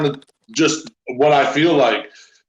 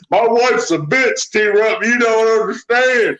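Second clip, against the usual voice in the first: higher, slow complaining worker; griping coworker; 6 semitones higher, slower than usual. Retold or imitated. A factory coworker complaining to T-Rup about his wife, higher and slow.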